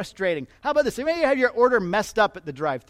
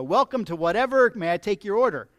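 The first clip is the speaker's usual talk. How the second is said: pre-recorded drive-thru voice; 2 semitones higher, 5 dB louder than usual. Retold or imitated. Pastor mimics the drive-thru machine greeting, canned and louder. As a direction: play the automated speaker box. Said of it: "a pre-recorded voice comes off and says".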